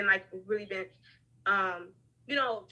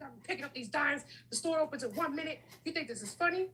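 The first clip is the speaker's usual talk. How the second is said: mad; 4 semitones higher, 6 dB louder than usual. Retold or imitated. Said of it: "Like, I was mad".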